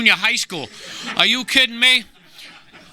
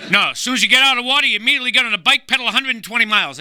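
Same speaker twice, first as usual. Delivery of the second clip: fast, high, eager explaining; eager athlete voice; 5 semitones higher, faster than usual. Retold or imitated. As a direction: rattle it off like a proud fitness buff.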